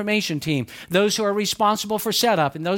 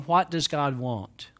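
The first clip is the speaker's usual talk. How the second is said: slow, soft, lower "What does God want?" asked earnestly; sincere right question; 4 semitones lower, 4 dB quieter, slower than usual. Retold or imitated. Pastor modelling the right question for the congregation, soft and sincere. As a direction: ask "want" humbly and quietly. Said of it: "two very different statements".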